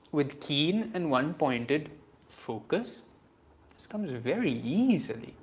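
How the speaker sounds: slow sincere rereading. Shown as a demonstration. Teacher rereads the verse to students, slow and sincere. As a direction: let "keen" sink in gently. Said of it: "I don't think so".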